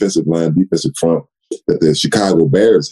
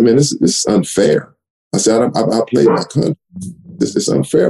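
indignant; 9 semitones higher than usual. Retold or imitated. Protesting contract to GM.

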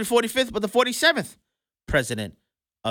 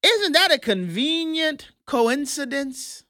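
sarcastic; 7 semitones higher, slower than usual. Acted. Sarcastic slow rhetorical question.

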